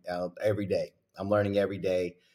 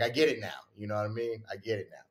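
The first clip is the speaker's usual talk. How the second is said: usual speaking voice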